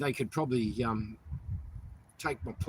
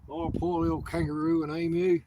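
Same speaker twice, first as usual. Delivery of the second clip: higher, louder sarcastic sympathy; mock pity; 5 semitones higher, 5 dB louder than usual. Man pitying the corporation's coat of arms, mock-sympathetic. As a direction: coo over a so-called victim, mockingly.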